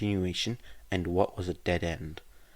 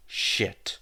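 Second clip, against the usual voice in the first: whispered curse; 3 dB louder than usual. Acted. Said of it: "and Cho replied".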